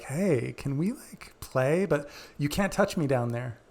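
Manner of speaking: lightly teasing invitation; playful, casual come-on. Retold or imitated. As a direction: flirt a little, then set a cheeky limit. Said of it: "being playful about it".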